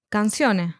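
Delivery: "canciones" with the last S left off; "canciones" ending openly on the e; dropped final S. Shown as a demonstration. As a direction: say "canciones" without sounding its final S. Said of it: "dropping the last letter S from words".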